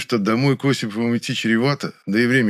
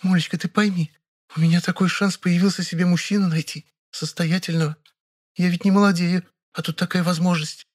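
pleading; 10 semitones higher than usual. A narrator's reading. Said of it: "горячо зашептала".

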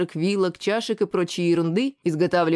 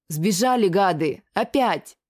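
excited shout; slower than usual. Acted. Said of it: "возбуждённо прокричала Шиза".

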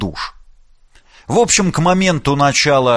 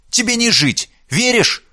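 stern threat; 11 semitones higher than usual. Acted. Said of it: "посерьёзнев нахмурилась Мила".

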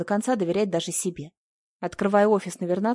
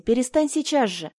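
higher, pleading insistence; urgent plea; 5 semitones higher, 3 dB louder than usual. A narrator's reading. Asya begging sobbing Marta to stop, urgent and pleading. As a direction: beg her to stop right now. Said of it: "умоляла Ася".

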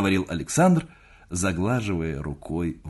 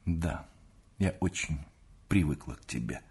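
softer, distracted reply; wife answers her husband absently, softer; absent-minded; 3 semitones lower, 7 dB quieter than usual. Soft distracted reply. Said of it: "рассеянно отвечала".

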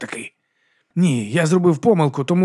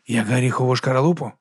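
grumbling. Acted. Monk grumbles back at Viga's simile, grumbling. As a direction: mutter it back, unconvinced. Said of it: "буркнув він".

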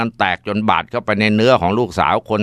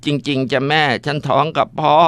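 higher, steadier, insisting it is true; firmer tearful repeat; 6 semitones higher than usual. Acted. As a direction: repeat it plainly through tears. Daughter repeating confession.

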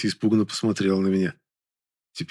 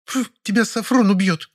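put-on higher, scornful girl's voice; a hint of a snorting young woman; Zayka snorting; 12 semitones higher than usual. A narrator's reading. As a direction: sniff it out with contempt. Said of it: "фыркнула Зайка".

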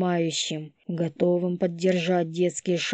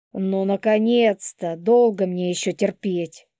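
irritated woman; 3 semitones higher, 6 dB louder than usual. Acted. Nervous mother complains.

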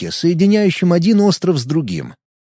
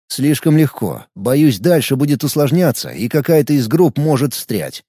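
usual speaking voice

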